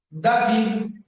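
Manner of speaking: David said "da-VID", stressing the second syllable; Hebrew pronunciation. Shown as a demonstration. Teacher telling students to say it this way, Hebrew pronunciation of David. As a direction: say David with its final d sounded. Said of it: "você vai falar dessa forma".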